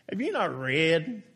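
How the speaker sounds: Jesus teasing know-it-alls, mildly sarcastic. Retold or imitated. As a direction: needle the Pharisees with a lightly sarcastic question. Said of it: "I love sarcastic Jesus".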